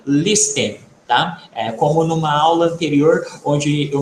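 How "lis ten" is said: "listen" with the t sounded, LIS-ten; mispronounced with T. Shown as a demonstration. Teacher warning students of a mistake, sounded T. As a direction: pronounce the silent t in "listen". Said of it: "Procurem não pronunciar como".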